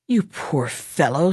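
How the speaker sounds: slow, soft pitying words; pityingly. Acted. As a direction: feel sorry for him, gently. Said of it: "said the boy pityingly".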